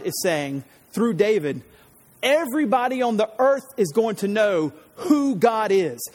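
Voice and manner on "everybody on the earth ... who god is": fervent preaching. Real, not acted. Preacher's climax on God's fame.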